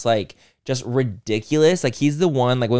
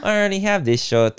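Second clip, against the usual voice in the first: put-on family in-joke, light toddler voice, higher; baby voice; 8 semitones higher than usual. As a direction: quote the little cousin in a cute baby way. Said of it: "we say it now".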